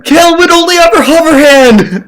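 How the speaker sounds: high, laughing mock defence; laughing joke. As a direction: tease through a laugh.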